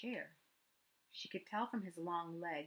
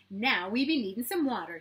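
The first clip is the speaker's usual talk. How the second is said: put-on loud, high eager little boy; a child bursting to show more; excited boy; 3 semitones higher, 10 dB louder than usual. A narrator's reading. Matt to Kira, loud excited child.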